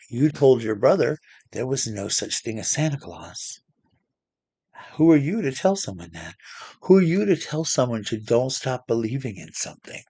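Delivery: mildly indignant retold reprimand; acted Santa taking a child to task; stern scolding. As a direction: tell off a child with pointed emphasis.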